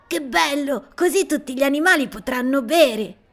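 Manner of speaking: put-on high, loud, gleeful child voice; delighted child. A narrator's reading. Little boy delighted the animals can drink, high and loud. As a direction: bubble over with joy at the water. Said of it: "gorgoglia Gianni".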